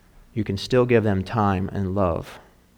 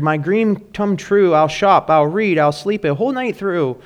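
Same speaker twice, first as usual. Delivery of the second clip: excited; 8 semitones higher, 5 dB louder than usual. Acted. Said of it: "the mom cheered".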